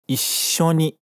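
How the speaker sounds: "Issho ni" with a short gap between "i" and "sho"; geminate pause. Shown as a demonstration. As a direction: catch the breath after "i" in "Issho". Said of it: "vazio na pronúncia de novo, entre o i e o sho". ("Issho ni" com vazio entre o i e o sho)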